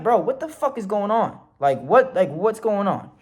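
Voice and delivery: high, incredulous appeal; retold bewildered protest. Cuffed driver questioning the officer, bewildered protest. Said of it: "But I'm speaking to them very respectfully".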